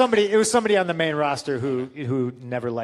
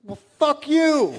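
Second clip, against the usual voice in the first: slow, high, loud, laughing through it; laughing retort; 12 semitones higher, 7 dB louder, slower than usual. Retold or imitated. Telling the host how he answered Atlas, laughing. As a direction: toss it off with a laugh.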